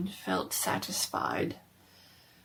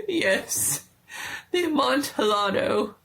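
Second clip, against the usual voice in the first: higher, louder, eager voice of the trapped man; eager Fortunato; 5 semitones higher, 4 dB louder than usual. A narrator's reading. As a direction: grab at the word Amontillado with false cheer.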